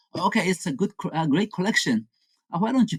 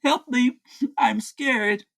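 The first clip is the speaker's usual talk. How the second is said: offhand fake plea between bites; mock scared; 8 semitones higher than usual. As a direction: toss off a half-hearted cry for help. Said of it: "He is screaming help and I'm scared".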